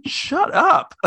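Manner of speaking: imitating a snapped shut up. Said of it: "I would have turned around and I said".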